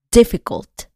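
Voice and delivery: "Difficult" stressed on the first syllable, DI-fficult; English stress. Shown as a demonstration. Teacher showing English stress on "Difficult", DI punched. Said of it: "la sílaba que pronuncias más fuerte es la primera".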